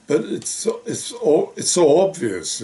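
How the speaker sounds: real irritation pushing the pitch up; exasperated. Real, not acted. Fed-up citizen venting at the government, exasperated. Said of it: "I'm getting a bit pissed off about this".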